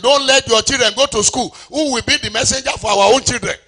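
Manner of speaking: high-pitched persuasive address; Akintola. Retold or imitated. Akintola persuading people about children going to school, high insistent address. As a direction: argue insistently to a crowd, pitched well up. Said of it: "Akintola called them and said".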